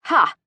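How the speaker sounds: short scoffing "ha"; scornful snort. A narrator's reading. Woman scoffing at his boast, snorted. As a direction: snort out a mock laugh. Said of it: "I snort".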